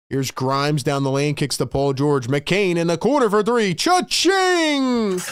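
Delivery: excited basketball commentator climbing in pitch; live play-by-play. Real, not acted. Live play-by-play, three-pointer scored.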